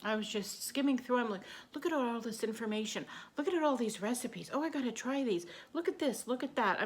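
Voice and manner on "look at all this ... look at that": rising, gushing excitement; mild retold excitement, pitch climbing; excited. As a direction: gush over the recipes. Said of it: "I got all excited".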